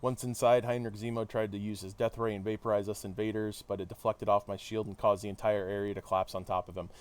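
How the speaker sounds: measured read-aloud of a hero's debrief; story narration. Acted. Hero recounting the London mission to listeners, narrated. Reads game dialogue aloud.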